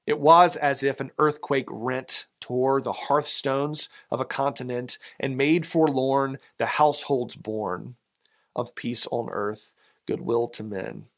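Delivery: measured, lilting poem reading; reciting a Christmas poem to the congregation; poem recital. Acted. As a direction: read the verse with a gentle swell.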